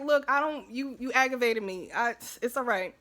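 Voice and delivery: mock annoyed alter ego. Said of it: "that's how my alter ego be thinking".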